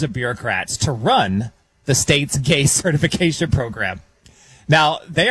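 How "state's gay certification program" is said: stifled laugh. Real, not acted. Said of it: "I'm gonna get through this without laughing".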